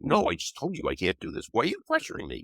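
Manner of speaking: a hint of a defensive child, rising high at the end; whiny protest from a pressured kid; kid pushing back. Child answering a parent who says he can, mildly indignant.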